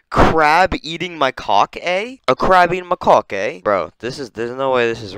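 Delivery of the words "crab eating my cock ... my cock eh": higher British lilt, rising at the end; mock British accent. Reading out the monkey's name, mock British accent. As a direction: announce it in hammed-up British. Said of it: "It looks British, and it says".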